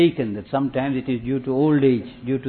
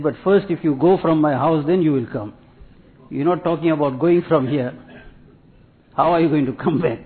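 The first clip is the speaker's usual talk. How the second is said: raised, louder retold objection; mock protest; 3 semitones higher, 4 dB louder than usual. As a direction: object as the guest who won't budge. Retold guest protests at leaving.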